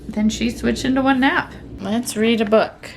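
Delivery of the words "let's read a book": sing-song mom voice. Real, not acted. Mom coaching toddler to sign.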